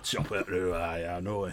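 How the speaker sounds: low, soft knowing Yorkshire murmur; a gruff old local nodding along. Acted. Agreeing with Colin, low quiet Yorkshire accent. Trading northern banter.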